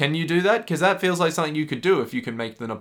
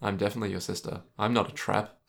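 mock creepy sister; 5 semitones lower, 5 dB quieter than usual. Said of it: "it's like".

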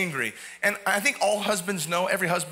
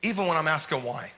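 full-force preaching. Acted. Preacher voicing David's vow to the congregation, full force. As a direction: preach it hard, building conviction.

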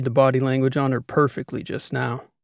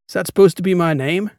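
louder, higher incredulous question; amused disbelief; 5 semitones higher, 7 dB louder than usual. A narrator's reading. Captain questions the new cover name, amused disbelief. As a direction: balk at the name, half amused. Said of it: "I couldn't help but laugh".

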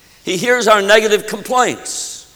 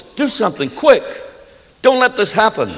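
higher-pitched urgent plea, mildly desperate; desperate cry; 5 semitones higher than usual. Acted. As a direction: beg urgently for help. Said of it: "It was a desperate cry".

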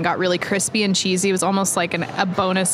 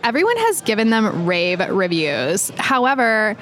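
put-on Valley Girl voice. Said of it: "I'm gonna do a Valley Girl voice".

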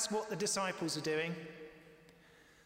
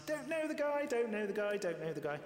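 Peter denying; 3 semitones higher than usual. Retold or imitated. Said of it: "Peter had denied Jesus three times".

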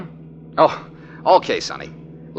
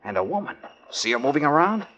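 hushed aside; 6 dB quieter than usual. Acted. Detective pointing out the woman to Sonny, in a hushed voice. Sneaking up on a cabin.

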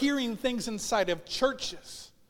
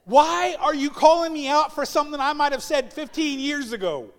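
higher, louder incredulous protest; exasperated plea; 5 semitones higher, 5 dB louder than usual. Retold or imitated. Husband answering wife's reproach, mock exasperated. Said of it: "I'm looking at her going".

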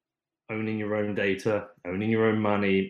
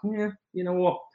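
casual everyday person; 5 semitones higher than usual. Retold or imitated. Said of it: "most people are like".

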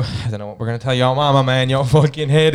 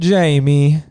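louder, higher mock Italian; Italian accent; 4 semitones higher, 5 dB louder than usual. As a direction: call the name as a hammed-up Italian. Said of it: "You do an Italian voice there".

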